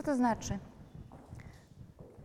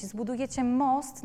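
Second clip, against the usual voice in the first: usual speaking voice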